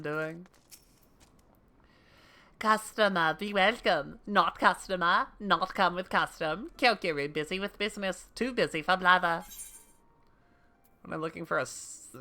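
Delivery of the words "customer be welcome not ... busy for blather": lightly voiced curt trader in broken speech; busy merchant, short separate phrases; brusque game shopkeeper. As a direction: play a shopkeeper too busy to chat.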